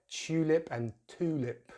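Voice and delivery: first tulip as chyoo-lip, second as too-lip; British versus American. Shown as a demonstration. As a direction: contrast tulip with y and tulip without. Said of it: "It's a bit like".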